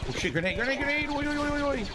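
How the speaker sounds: high panicked shout of warning; grenade warning yell. Real, not acted. Grenade landing nearby, calling out.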